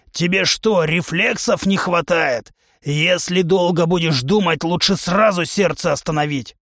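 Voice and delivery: a brash trainer lecturing his recruit; a touch of a boastful warrior coach; hint of a gruff trainer. Trainer humanoid voiced.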